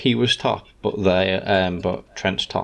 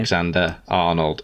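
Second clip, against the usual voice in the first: flat robotic monotone. Shown as a demonstration. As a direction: say the name with no expression at all. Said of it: "say in a standard monotone voice".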